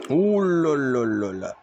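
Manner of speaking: drawn-out shocked ouh là là; surprised gasp. Real, not acted. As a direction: react to a brutal hit. Gasp at a big hit.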